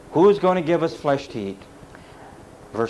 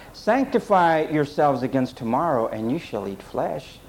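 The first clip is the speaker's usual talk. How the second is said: casual misreading. Shown as a demonstration. Preacher shows how not to read God's promise, casual misreading. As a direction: read it as an easy promise, letting the end drop away. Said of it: "Let's not read it".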